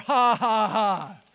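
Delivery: loud, deliberate mock laugh. Jesus mocking defeated evil, a loud scornful laugh. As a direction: laugh triumphantly in evil's face. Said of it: "Jesus mocks evil".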